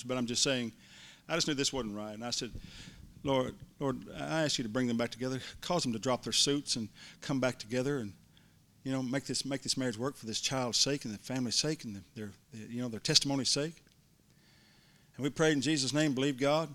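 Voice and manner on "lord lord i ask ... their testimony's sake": softer, earnest prayer retold; quiet prayer. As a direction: pray it softly over the child.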